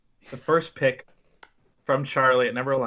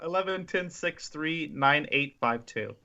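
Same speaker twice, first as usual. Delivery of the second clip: slowly, number by number; slow and deliberate; 6 dB quieter, slower than usual. Shown as a demonstration. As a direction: spell the numbers out carefully. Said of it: "say that again".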